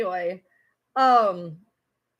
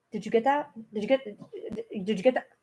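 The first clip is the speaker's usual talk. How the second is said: mimicking the other woman; 3 semitones lower, 6 dB quieter, much faster than usual. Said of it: "went from crying her eyes out to".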